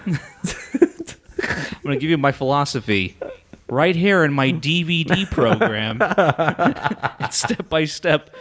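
laughing, hammed-up sales pitch; home shopping host. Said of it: "home shopping host".

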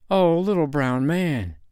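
put-on slow, high, plaintive little girl; drawn-out acted sorrow; tearful. A narrator's reading. Girl answers the little man, through her tears. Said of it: "answered little Nanny through her tears".

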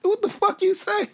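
over-the-top Australian outburst; mock Australian accent. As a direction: blurt it out in a jokey Australian accent. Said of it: "Now, I just went Australian".

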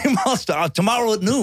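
high, formal challenge to a duel; lightly voiced gentleman dueler; old-timey duelist. Mock duel challenge continues.

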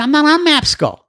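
frantic and lost; desperate caller. Retold or imitated. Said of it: "He said".

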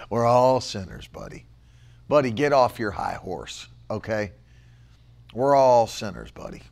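low, soft mocking murmur with a laugh; mock smug sinner. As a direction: mimic a smug churchgoer. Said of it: "Buddy said".

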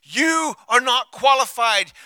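sung-out shout, slow; mock chant of the accuser; taunting enemy. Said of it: "the enemy creeps in and says".

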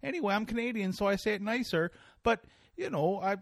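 high, put-on lecturing voice, mocking; mocking Jordan Peterson. Host mocking a self-help professor to his guest, high put-on lecturing voice. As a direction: lampoon a preachy professor, pitched high. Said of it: "like, some Canadian guy".

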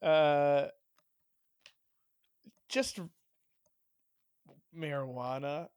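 slow, drowsy and hesitant; loopy. Real, not acted. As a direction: drag it out, half asleep. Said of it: "I'm loopy on pain meds".

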